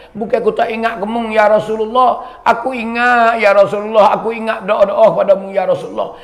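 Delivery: acted tearful plea. Bilal pleads at the Prophet's grave, acted anguished crying out. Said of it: "Duk teriak di kubur Rasulullah".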